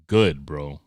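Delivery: ordinary delivery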